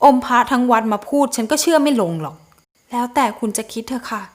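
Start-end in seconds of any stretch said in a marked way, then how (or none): 2.9-4.2 put-on softer, composed young woman's voice; quiet, holding back her hurt; cool detached heroine. Heroine coldly ends the talk with the groom, soft and composed.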